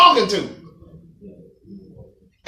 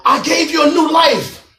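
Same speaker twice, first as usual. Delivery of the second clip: booming, exasperated rebuke; voice of God scolding; 6 semitones higher than usual. Retold or imitated. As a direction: play God fed up with the whining. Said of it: "the voice came out".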